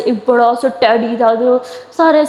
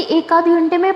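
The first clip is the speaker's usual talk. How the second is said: ایک آدھ گھنٹے میں repeated higher, rising in disbelief; incredulous echo; 5 semitones higher than usual. Acted. Younger sister echoing the hour-long wait, higher incredulous rise. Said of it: "تو کہتی".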